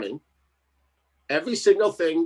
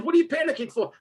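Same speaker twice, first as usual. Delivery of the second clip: mock wife voice; 12 semitones higher, faster than usual.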